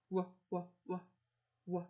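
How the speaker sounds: W repeated as a soft sound. Shown as a demonstration. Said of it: "sound it out".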